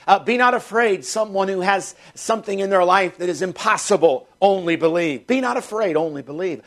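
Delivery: a preacher's building call to believe; preaching at full force. Acted. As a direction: urge the church again and again not to fear. Repeated exhortation to the church.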